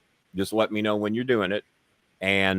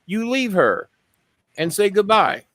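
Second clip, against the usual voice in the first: mother's voice rising higher toward the end; lightly voiced mother, higher on the goodbye; imitating her mother; 4 semitones higher than usual. Retelling the girl's dream to the host, as her mother. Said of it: "this is her mother talking".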